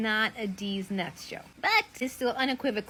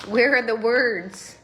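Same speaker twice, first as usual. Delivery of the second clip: loud, slow, demanding each word; 7 dB louder, slower than usual. Real, not acted. Wife demanding the hidden words from husband, loud and slow. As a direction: press him for an answer, drawn out.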